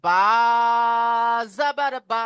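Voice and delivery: বা said short and clipped, no stretching; don't drag the বা, keep it brief; short, no drawl. Shown as a demonstration. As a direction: correction demo with a short বা. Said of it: "বাতে টান দেবেন না".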